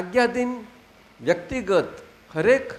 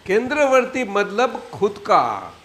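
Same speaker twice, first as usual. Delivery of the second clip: measured, slightly raised recital; dictation; 4 dB louder than usual. Shown as a demonstration. Teacher gives the group a phrase to repeat, measured dictation.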